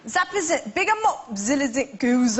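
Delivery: baffled stab at Yorkshire sounds; mangled Yorkshire accent. Acted. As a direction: copy a Yorkshire phrase as meaningless chunks. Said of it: "by the time you'd mangled it".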